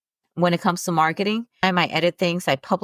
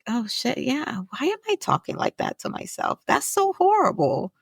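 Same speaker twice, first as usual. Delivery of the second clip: realization; 5 semitones higher than usual. Retold or imitated. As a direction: sound struck by a sudden realization. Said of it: "I was like".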